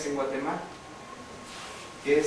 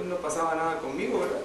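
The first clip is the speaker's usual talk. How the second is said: ordinary delivery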